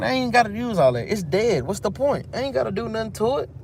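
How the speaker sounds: high, dismissive brag, fast at the end; cocky Daniel. Retold or imitated. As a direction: shrug it off like it's too easy. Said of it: "He said".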